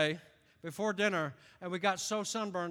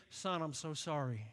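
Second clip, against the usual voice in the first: softer, lower fatherly apology; tender apology; 4 semitones lower, 4 dB quieter than usual. Retold or imitated. Lightly voiced father apologizing to his son, tender. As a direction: gently say sorry to your son. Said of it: "if my dad would have said to me".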